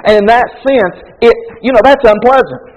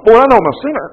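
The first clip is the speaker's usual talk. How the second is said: laughing flippant confession; much faster than usual. Retold or imitated.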